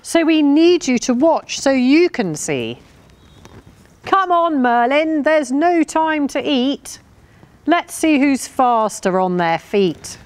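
high, lively dog character; eager, high-pitched storybook pup; barked eagerly. A narrator's reading. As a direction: chivvy them along in a high, excited voice. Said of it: "barked Midge".

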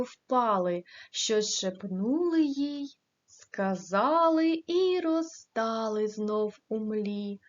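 an even, measured reading of verse; poem recitation. Acted. Teacher reciting a poem to the class, in a gentle reading voice.

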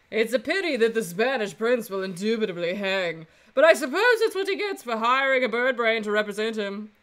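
haughty, sneering rival; arrogant prosecutor voice. Acted. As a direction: look down your nose at him. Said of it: "that arrogant voice".

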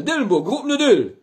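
shouted name, then backwards; backwards speech. Acted. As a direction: yell it, then reverse it. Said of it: "rückwärts".

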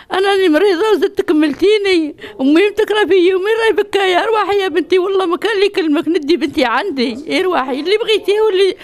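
loud, tearful and upset pleading; angry crying. Real, not acted. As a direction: cry out at her, hurt and angry. Aunt pleading, sick and upset.

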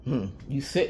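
normal talking voice

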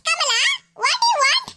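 haughty put-on English; mock posh English. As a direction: show off with a snooty English line. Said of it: "English பீஸ்ல பேசிக்கிட்டு".

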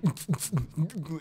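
short sputtering mouth sounds; quick little bursts of mouth noise; imitated bouncing noises. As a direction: make the noise of a bouncing vehicle. Imitates vehicle bouncing down runway.

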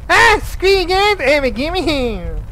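lightly voiced bratty cartoon kid, high start then slow; a hint of Cartman's snotty brush-off; half-hearted cartoon kid sneer. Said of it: "um, Cartman".

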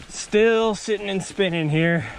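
slow, hushed documentary narration; hushed nature documentary. Pretend. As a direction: narrate it like a wildlife film. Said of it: "Is this a good narrator voice?".

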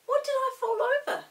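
high puzzled question; baffled after tumbling; boy astonished at tripping on nothing. A narrator's reading. Peter astonished after falling.

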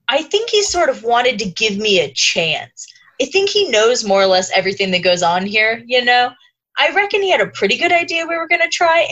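a hint of Mike's calm knowing tone; Mike impression. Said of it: "you delivered that whole thing in your Mike impression".

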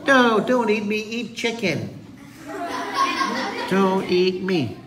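high-voiced mock plea; pleading prey. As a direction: beg in a high voice not to be eaten.

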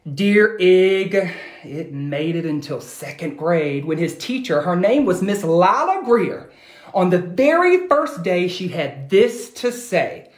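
put-on lively read-aloud to children; animated picture-book reading; storybook narration. A narrator's reading. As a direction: tell it like a bedtime story.

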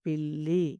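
పిల్లి with a firmly held ll; pressed double l. Shown as a demonstration. Teacher models the word for pupils, pressed ll in పిల్లి. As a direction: press and hold the middle of పిల్లి. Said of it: "ఒత్తి పలుకుతాము".

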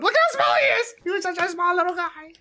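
cutesy coo. Pretend. Streamer cooing at a tiny enemy in a high voice. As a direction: coo over something tiny.

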